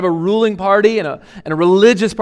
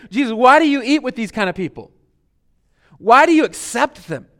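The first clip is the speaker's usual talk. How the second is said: higher-pitched mock complaint, question after question; lightly acted indignant protest, pitched up; imitated complaining; 4 semitones higher than usual. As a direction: complain like disapproving churchgoers. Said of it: "They complained about it".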